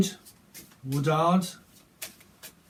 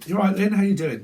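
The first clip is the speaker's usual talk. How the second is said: imitating late friend; 6 semitones higher, 5 dB louder than usual. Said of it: "That is typically what she would say".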